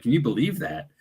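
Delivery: mildly incredulous retold reaction. Recounting a companion's reaction to fellow investigators, incredulous. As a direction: imitate someone's disbelief, lightly. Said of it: "she had a really incredulous reaction".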